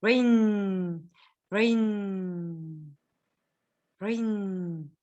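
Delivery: "Rain" low, with a long humming n; low, slow "Rain" that hums out; vibrating n. Shown as a demonstration. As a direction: sustain the n of "Rain", sinking gently. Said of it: "There is a vibration".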